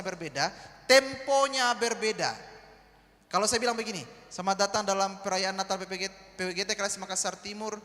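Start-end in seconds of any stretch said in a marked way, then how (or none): 4.3-7.8 slow announcement with the pitch dropping at the end; slow falling delivery. Shown as a demonstration. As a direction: let it sag and slow down, wrong way. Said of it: "temponya lambat, nadanya turun".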